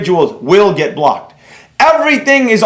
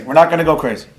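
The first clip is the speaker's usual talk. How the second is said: calming himself; 5 semitones lower, faster than usual. Real, not acted. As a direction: talk yourself down, gently.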